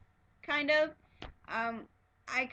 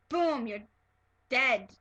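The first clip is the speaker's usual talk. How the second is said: brutal; 6 dB louder, slower than usual. Shown as a demonstration. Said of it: "It wasn't like a brutal".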